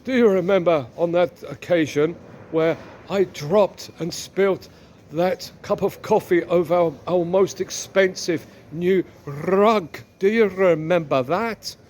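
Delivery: lightly put-on husband voice; deliberate, lightly hammed-up husband recalling a mishap. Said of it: "The husband turns to the wife and says".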